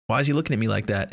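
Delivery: a light hint of a cute teen girl voice, quickly; lightly imitating sister's cute little voice; barely voiced cute girl. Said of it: "in her, like, cute little voice".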